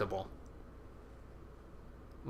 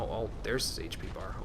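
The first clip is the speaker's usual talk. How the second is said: whisper; 4 semitones lower, 6 dB quieter than usual. Real, not acted. Whispered aside during fight.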